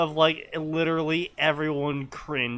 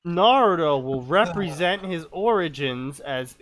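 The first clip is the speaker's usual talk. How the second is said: measured read-aloud delivery; story reading. Acted. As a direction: read "represent his origins" out as narration.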